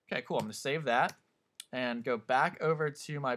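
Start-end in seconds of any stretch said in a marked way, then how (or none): 0.1-0.4 talking through hiccups; hiccuping between words. Real, not acted. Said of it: "Excuse me, get the hiccups".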